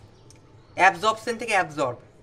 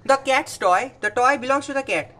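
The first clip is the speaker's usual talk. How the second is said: emphatic example read; 3 semitones higher, 4 dB louder, much slower than usual. Shown as a demonstration. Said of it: "ক্যাটসের toy মানে বিড়ালের খেলনা".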